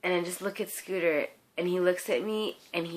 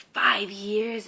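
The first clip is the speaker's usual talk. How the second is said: retold surprised question; 3 semitones higher, 6 dB louder than usual. Justin reacting to how long she waited, surprised echo. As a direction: imitate his surprise at the number. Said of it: "Justin was like".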